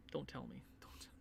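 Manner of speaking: unvoiced whisper of dread; please don't be them. Real, not acted. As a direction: whisper it, fearing the answer. Dreading the playoff opponent.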